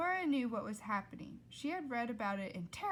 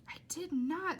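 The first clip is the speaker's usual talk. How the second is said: indignant Flora; 8 semitones higher than usual. Acted. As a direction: fire the denial back quickly. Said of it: "said Flora".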